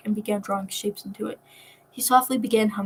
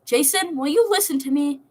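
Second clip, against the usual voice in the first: exasperated demand; 5 semitones higher than usual. Acted.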